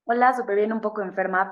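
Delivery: hoarse from a cold; rough, sick voice. Real, not acted. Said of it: "perdón mi voz".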